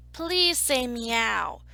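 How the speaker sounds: slow, falling, drawn-out plea; pleading. Acted. Story narrator begging the dog to meow, slow pleading. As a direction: beg with a stretched-out please.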